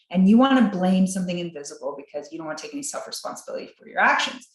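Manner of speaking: exasperated rant at someone who says they caught a bug; scolding lecture. Retold or imitated. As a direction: scold them hard for blaming germs. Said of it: "So I say".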